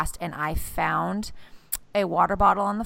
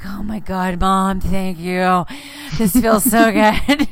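put-on relieved kid; 6 dB louder, slower than usual. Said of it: "And he's like".

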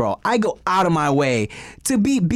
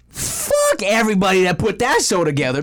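indignant rant; 4 semitones higher than usual. Retold or imitated. Indignant rant quoting own outburst.

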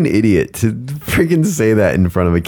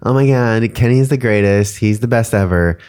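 gushing; 2 semitones higher than usual. Retold or imitated. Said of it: "last week she was like".

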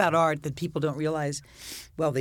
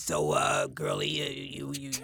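gruff club guy voice; 3 semitones lower than usual. Retold or imitated. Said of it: "a guy with that kind of voice".

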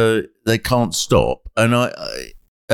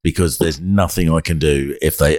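lower, slow and calm; calm warning; 5 semitones lower than usual. Retold or imitated. Narrator retelling calmly warning the neighbour, slow steady voice. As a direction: talk him down gently, lower and slow. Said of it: "I just very calmly".

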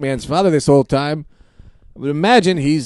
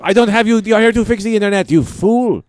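shouting; 7 semitones higher, 4 dB louder than usual. Acted. Improv scene, shouting at repairman.

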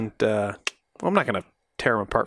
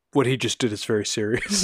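apologetic; 3 semitones lower than usual. Retold or imitated.

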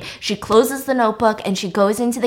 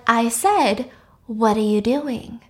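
slow, controlled confrontation; sober, normal voice; 3 dB quieter, slower than usual. Retold or imitated. Woman confronting the panicked man, sober voice. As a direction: say it evenly, with deliberate pauses. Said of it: "in a very sober, normal voice".

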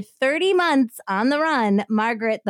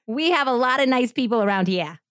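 put-on Boston accent; 3 semitones higher than usual. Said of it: "That's pretty good, Jess".

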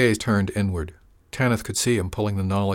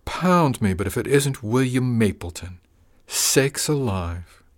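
mock surprise; 4 semitones higher, slower than usual. Villain greets William mockingly.

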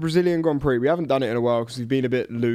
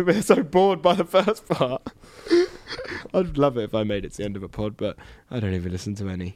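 snotty crying; 3 semitones lower than usual. Real, not acted. Laughing till tearful, snotty.

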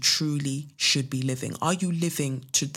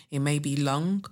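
put-on light Jamaican accent on LONG; attempted Jamaican accent. Reading out mum's saying to end the letter, attempted Jamaican accent. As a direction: try "long" with a Jamaican lilt. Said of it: "tried to say long in a Jamaican accent".

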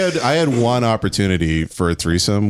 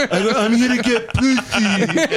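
put-on old man voice; 13 semitones higher, slower than usual. Joking as an old man with canes.

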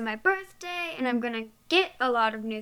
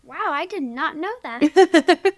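slow, louder, higher wow; surprised; 4 semitones higher, 8 dB louder than usual. Real, not acted. Daughter learning she inspired the challenge, amazed. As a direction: marvel at news you never knew.

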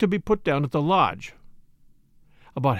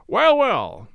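louder, higher, hearty colonel; breezy, louder; 5 semitones higher, 5 dB louder than usual. A narrator's reading. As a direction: raise your voice breezily. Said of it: "breezily in a louder voice".

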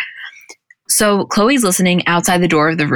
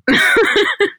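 high laugh. Real, not acted. Laughing at dad stories.

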